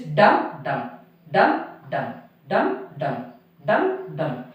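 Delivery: "dum dum" in separate, weighted beats; spondee beat. Shown as a demonstration. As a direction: stress both words in each "dum dum", pausing between pairs. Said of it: "Two stressed syllable".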